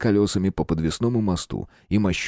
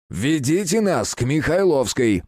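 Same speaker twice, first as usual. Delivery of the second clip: curt order; 7 semitones higher, slower than usual. A narrator's reading. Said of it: "перебил Терентьев".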